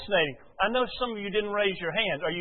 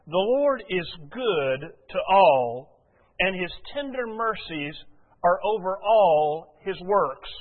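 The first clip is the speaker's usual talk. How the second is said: slow, measured scripture reading; preacher reading psalms from the pulpit, slow and measured; slower than usual. Acted. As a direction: read the verse out deliberately to the congregation. Reads scripture aloud slowly.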